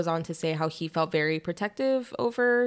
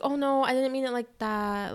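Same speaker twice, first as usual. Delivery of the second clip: higher-pitched imitated protest; mock backpedaling; 6 semitones higher than usual. Host voicing the wife as she flips it, mock backpedaling. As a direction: take it back in a high voice.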